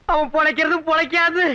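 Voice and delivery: normal talking voice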